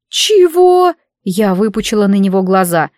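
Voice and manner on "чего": shocked. A narrator's reading. Shocked at familiar's absence.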